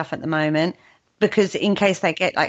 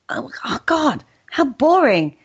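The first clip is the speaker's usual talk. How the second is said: mock boredom; 6 semitones higher than usual. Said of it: "mock boredom".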